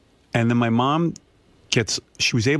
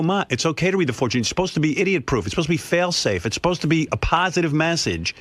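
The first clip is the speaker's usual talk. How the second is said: higher, quick reassuring explanation; reassuring mom; 7 semitones higher than usual. Retold or imitated. Daughter reassuring mother about fortunes, quick and higher. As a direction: talk mom out of worrying. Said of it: "I go".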